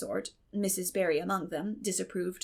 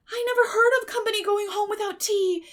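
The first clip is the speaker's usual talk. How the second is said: higher, plaintive lament; mourning; 12 semitones higher, 7 dB louder than usual. A narrator's reading. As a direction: lament the lost tea party. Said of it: "she mourned".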